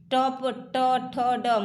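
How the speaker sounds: "टप, ट, ठ, ड" as separate retroflex sounds; articulation demo. Shown as a demonstration. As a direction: sound out "टप, ट, ठ, ड" with firm tongue contact. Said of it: "इस पर किस चीज़ पर जोड़ हो रहा".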